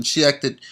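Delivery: emphasize "acted" as a loaded word; stress on acted. Real, not acted. Host retelling a suspect interview, stress on "acted". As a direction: lean on "acted", setting it apart. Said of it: "I really emphasize the word acted".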